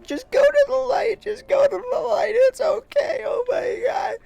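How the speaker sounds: very high, loud mock wail; hysterical crying. Woman urging the dying cat onward, hysterical mock wailing. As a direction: plead through hammed-up sobs. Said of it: "she's, she's crying".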